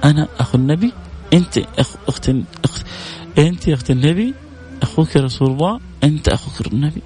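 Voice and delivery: joyful exclaim. Real, not acted. Preacher exults at brotherhood.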